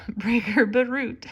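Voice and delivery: a real little laugh breaking into the name; laughing at a slip. Real, not acted. Reading a circus story aloud, laughing through the name. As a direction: laugh it off after fumbling the word.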